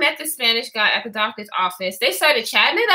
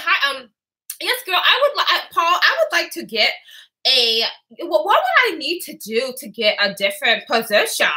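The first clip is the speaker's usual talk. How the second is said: imitating a forced Valley-girl Louisiana accent; mock a switched-up Valley-girl voice; affected Valley-girl impression; put-on Valley-girl accent. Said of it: "She switched it up".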